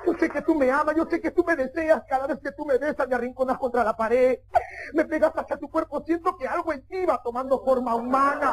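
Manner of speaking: a hint of a pleading girlfriend; girlfriend's plea. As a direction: act out a lover's declaration. Acts the cornered girlfriend's love plea.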